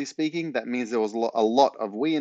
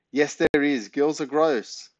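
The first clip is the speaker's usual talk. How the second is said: put-on disgusted kid; 3 semitones higher, slower than usual. Ben protests like a kid.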